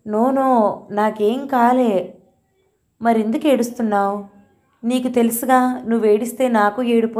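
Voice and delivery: a hint of a little boy holding back tears; lightly voiced upset boy. Grandson telling his grandmother about his friend, upset.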